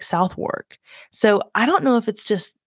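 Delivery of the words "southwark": Southwark as SOUTH-wurk; Southwark said as spelt, SOUTH-wurk; New Zealander's pronunciation. Retold or imitated. Pub guy answering how it's pronounced, Southwark as SOUTH-wurk. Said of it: "we would say".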